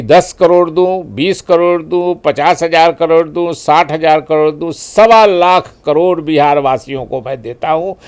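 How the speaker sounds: mock a grand rally promise, bid after bid; Modi at the rally. Politician replaying the rally package announcement to an interviewer, lightly mimicked orator. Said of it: "Modi जी तो वही video सब जगह चलेगा".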